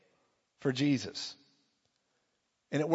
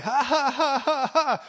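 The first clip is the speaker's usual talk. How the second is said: high, forced mock laughter; faith laugh; 10 semitones higher, 4 dB louder, slower than usual. Preacher laughing defiantly at his own back pain, forced laugh. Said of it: "That sounds like a fake laugh".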